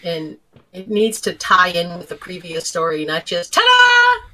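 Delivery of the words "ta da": high, loud ta-da; mock fanfare. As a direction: announce it like a cheesy comeback. Mock triumphant return.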